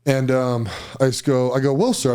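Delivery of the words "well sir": higher-pitched, mock-polite smart aleck; smart-ass. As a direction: play the wise guy, pitched up. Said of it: "kinda being a smart ass".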